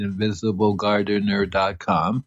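each word carefully separated for spelling; measured, careful web-address delivery; slow and careful. Real, not acted. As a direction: say the web address slowly and distinctly. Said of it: "I say it slowly".

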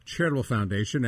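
talking around a cough drop in mouth; words shaped around a lozenge; sucking a cough drop. Real, not acted. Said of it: "a cough drop clanking around in my mouth".

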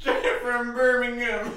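slow, high Jamaican voice; Jamaican accent. Retold or imitated. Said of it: "why does he go straight to Jamaica".

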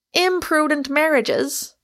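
high, loud incredulous echo; roared. A narrator's reading. Michael echoing Rosamond's warning, roaring. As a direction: throw it back as a roar. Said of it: "roared Michael".

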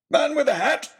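high, loud yelp; excited shout. Acted. Oxshott spotting deer, excited shout. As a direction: blurt it, thrilled. Baronet spots target.

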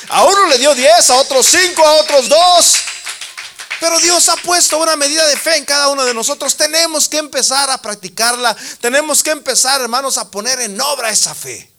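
loud, high fervent sermon; full-force preaching. Acted. Preacher urging the congregation to practise faith, full-force preaching. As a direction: preach it out to the whole church.

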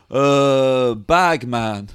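sedated old man, lightly imitated; a hint of doddery, dazed presenter; Mayo. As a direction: fumble the word like someone on sedatives. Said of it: "he's on a lot of sedatives".

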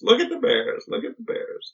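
high mocking singsong, fading to a thin breath; funny voice. Father ridiculing mother's love of landscape in a high funny voice. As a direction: ham up a gawking cartoon tourist. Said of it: "my father would say it in that funny voice".

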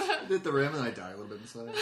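laughing. Real, not acted. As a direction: giggle out the punchline. Laughing while repeating the line.

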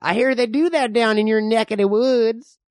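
lightly voiced suspicious old frontiersman; old man. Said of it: "I'm the old man".

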